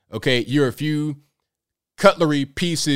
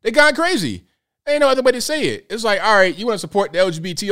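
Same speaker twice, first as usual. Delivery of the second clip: exasperated; 8 semitones higher, faster than usual. Real, not acted. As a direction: rant in disbelief. Exasperated rant.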